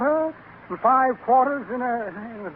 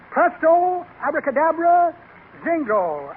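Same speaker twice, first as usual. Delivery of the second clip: magic incantation; 4 semitones higher, slower than usual. Acted. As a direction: boom it out like a stage magician.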